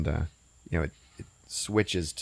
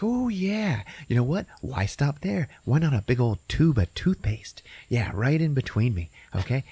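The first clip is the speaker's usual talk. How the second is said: teasing taunt; 6 semitones higher than usual. Retold or imitated. Brenda taunting him.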